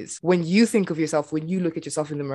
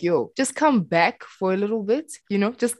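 higher, louder retold plea; urging family member; 5 semitones higher, 5 dB louder than usual. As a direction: imitate family pleading to ease up. Voicing family urging her to slow down.

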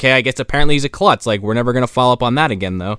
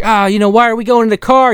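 squeaky put-on girl's voice, much higher; high mock woman's voice; 13 semitones higher, 5 dB louder than usual. Friend mocks the kidnapped woman in a high squeaky voice. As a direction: play the dragged-off woman in a silly high voice.

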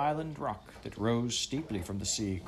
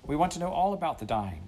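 cordial; 6 semitones higher than usual. A narrator's reading. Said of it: "said Anthea cordially".

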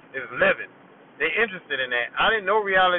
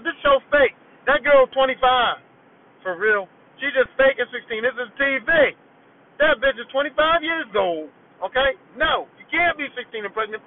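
put-on yelling at kids; 4 semitones higher than usual. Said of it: "I'm yelling at them".

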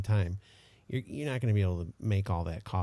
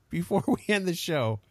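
laughing; 5 semitones higher than usual. Real, not acted. Laughing start, then restarts.

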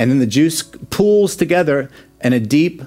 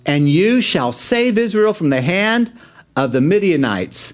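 slow divine command; 4 semitones higher, slower than usual. Acted. God's commission, read slowly.

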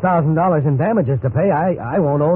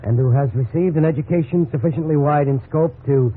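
reads the encyclopedia entry aloud, deliberate; a careful read-aloud from a book. Acted. Employee reads to his boss, careful reading aloud. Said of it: "Aloud, please".

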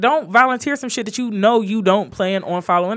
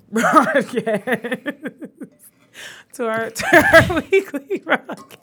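put-on Jamaican accent; 6 semitones higher, much slower than usual. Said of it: "bad Jamaican voice".

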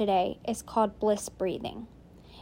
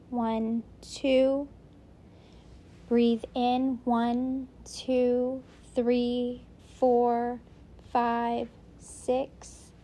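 measured breathing cues, a pause after each count; drawn-out single-word counts in a steady rhythm; breathwork counting; much slower than usual. Real, not acted. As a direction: count the breaths in and out, evenly spaced. Leads counted breathing exercise.

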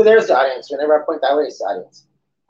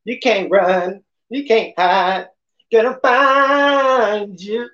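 menacing threat; 4 semitones higher, slower than usual. Pretend. Menacing movie-trailer line.

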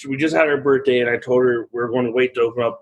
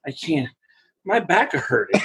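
put-on a toddler voice, higher, through laughter; imitating Ava; 3 semitones higher than usual. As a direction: play the three-year-old complaining to Daddy, higher. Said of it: "She's like".

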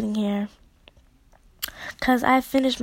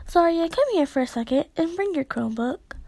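teacher calling; 6 semitones higher, faster than usual. Retold or imitated. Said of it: "She says".

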